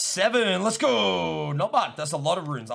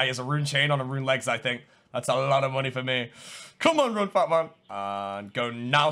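normal talking voice

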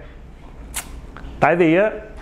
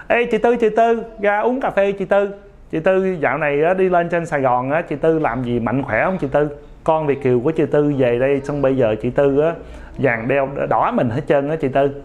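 giọng miền Tây. Acted. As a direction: tease mom in a Cà Mau accent, calling out then settling. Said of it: "anh nói cái giọng miền Tây, giọng Cà Mau". (giọng miền Tây, gọi cao giọng rồi hạ xuống chuyện trò)

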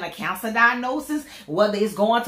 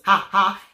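mock laugh; 4 dB louder than usual. Spoken laugh after "laugh on purpose.

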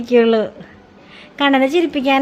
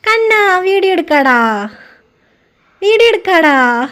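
coaxing call; 4 semitones higher, 4 dB louder than usual. Retold or imitated. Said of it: "ഒരേ ഒരു സൂത്രം എന്ന് പറയുന്നത് കണ്ണൻ കരയുമ്പോൾ".

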